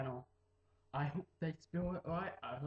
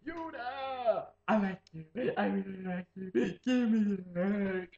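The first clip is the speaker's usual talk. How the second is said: loud, higher pushy stranger; creepy stranger; 4 semitones higher, 5 dB louder than usual. Retold or imitated. Random guy on the street demanding a hug, pushy. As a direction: barge in calling out and grabbing. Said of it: "a random guy comes up and goes".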